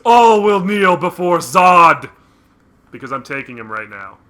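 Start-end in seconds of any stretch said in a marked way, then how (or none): 0.1-2.1 loud slow booming villain; villain proclamation. Pretend. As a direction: proclaim it like General Zod.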